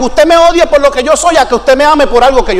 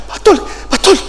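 higher-pitched urgent calls to the pastor; agitated Alfredo; 5 semitones higher, 3 dB quieter than usual. Retold or imitated. Alfredo finds his pastor crying, imitated agitated and high. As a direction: imitate a worried helper calling out. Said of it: "Y Alfredo me decía".

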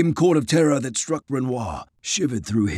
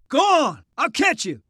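high send-off call; calling out urgently; 12 semitones higher than usual. A narrator's reading. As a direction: wave him on by voice. Calls to comrade to go.

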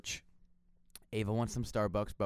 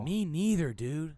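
high, louder excited exclamation; 7 semitones higher, 4 dB louder, slower than usual. Pretend. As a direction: blurt it out high and bright. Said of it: "I did that three times in a row".

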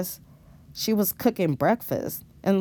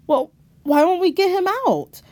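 higher, louder pleading question; upset shout; 11 semitones higher, 4 dB louder than usual. Acted. Robin reacting to news of father's arrest, alarmed. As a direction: push back in alarm. Argument with crying mother.

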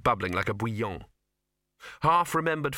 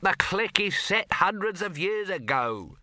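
high, slow, raised voice in a heated argument; shouted; 10 semitones higher, 4 dB louder than usual. A narrator's reading. Sol shouting at Dibbler in the studio argument, loud and high. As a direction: lean on it as if you're outraged. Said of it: "shouted Sol".

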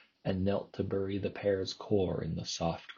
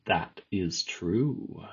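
displeased creature; much slower than usual. Acted. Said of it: "less laugh in its voice now".

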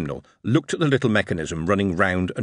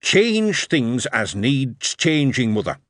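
put-on slow, grinning Yorkshire boy; happy lad; 3 semitones higher, slower than usual. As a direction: savour it like a proud promise. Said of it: "grinned and said happily".

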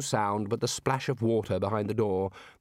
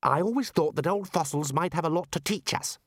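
higher, lightly voiced young man with a dig; Ponder, slyly cheeky; a touch of pointed wit; pointed young wizard; 6 semitones higher than usual. A narrator's reading.

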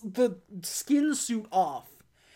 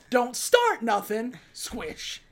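slow tough-guy line; 3 semitones higher, 4 dB louder, slower than usual. Retold or imitated. Jay's tough saying, slow.

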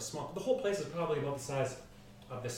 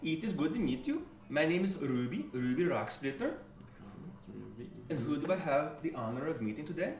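put-on hearty, polite shopkeeper voice in an accent; dwarf merchant; 4 semitones higher, 4 dB louder than usual. Dwarf merchant introduces himself to the party, hearty. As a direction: introduce yourself proudly, as a dwarf trader.

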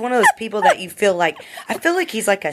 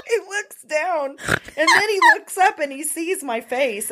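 laughing voice; 10 semitones higher than usual. Real, not acted. Still laughing telling prank.

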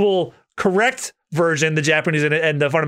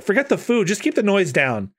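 Nami voice; 2 semitones higher than usual. Acted. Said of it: "it's Nami saying that".

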